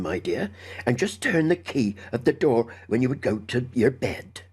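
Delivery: lightly voiced country housekeeper, uneasy; a hint of a fretful old servant. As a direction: warn the child in hushed homely tones. Housekeeper warns the boy.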